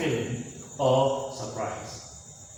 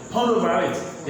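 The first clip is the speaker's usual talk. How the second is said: mildly raised voice, firm order; shouted command; 3 semitones higher, 3 dB louder, faster than usual. Shown as a demonstration. Teacher showing how not to tell somebody, mild demo shout. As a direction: call it out at somebody, a touch too forcefully. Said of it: "You don't shout, tell somebody".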